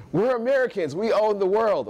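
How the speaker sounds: high, cocky mock boast; mock American swagger. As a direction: boast grandly, pitched well up.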